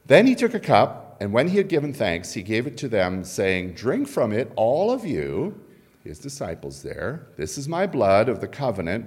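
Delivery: scripture reading. Acted. Reads scripture aloud.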